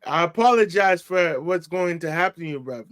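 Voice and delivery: measured mock English accent; lightly acted English-accent apology; imitated English accent. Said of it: "trying to get my lingo on point".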